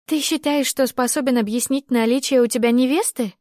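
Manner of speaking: high, sharp accusing question; angry. Acted. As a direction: throw the accusation back at him. Heated quarrel, heroine.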